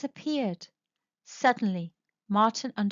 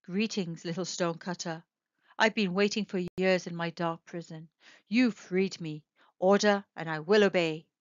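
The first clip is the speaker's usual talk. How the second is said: deep stone knight; 4 semitones lower than usual. Acted. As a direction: rumble it out like an ancient stone knight. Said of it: "A deep voice came".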